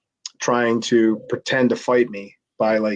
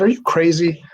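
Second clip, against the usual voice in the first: high-pitched retold disbelief; mock incredulous; 7 semitones higher than usual. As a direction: act out being taken aback, voice jumping up. Retelling his refusal of the plea.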